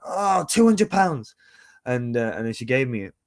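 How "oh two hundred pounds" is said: high, slow, loud tentative ask; nervous price quote. Retold or imitated. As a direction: blurt out the price high and unsure. Awkward moment naming a price.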